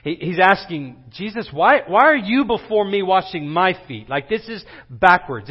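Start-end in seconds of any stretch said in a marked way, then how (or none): 1.1-4.1 acted shocked question, a little louder. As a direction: imitate a disciple's disbelieving protest. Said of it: "It's shocking to Peter".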